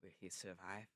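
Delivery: measured, low documentary imitation; narrator impression. Echoing the penguin scene for a friend, narrator impression. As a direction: pause gravely between the questions. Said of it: "he's narrating the whole thing".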